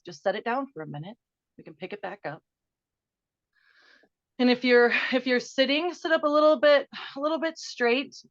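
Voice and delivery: gentle guided-meditation voice leading a breath. Acted. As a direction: ease the listeners into one big breath. Leads breathing exercise.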